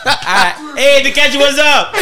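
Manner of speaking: laughing through words. Real, not acted. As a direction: talk while cracking up. Laughing along.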